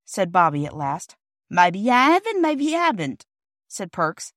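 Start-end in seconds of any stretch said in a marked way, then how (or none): 1.5-3.3 huffy porter. Acted. Offended porter rebuffs children.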